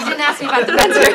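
loud laughing, fast. Real, not acted. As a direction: burst out laughing while talking. Both laugh over Oak Room.

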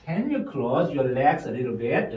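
slow, in two chunks; slow full sentence. Shown as a demonstration. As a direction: model the full sentence slowly. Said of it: "이렇게 하시든지 아니면". (두 묶음으로 천천히)

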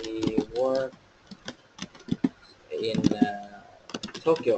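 long pause after "works", another before "Tokyo"; low, halting chunks: "works", "in", "Tokyo"; split up for ease. Shown as a demonstration. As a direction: separate each piece of "he works in Tokyo". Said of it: "tách ra cho dễ này".

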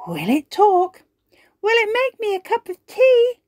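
high eager questions; excited. Acted. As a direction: ask full of excitement. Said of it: "clapping their hands excitedly".

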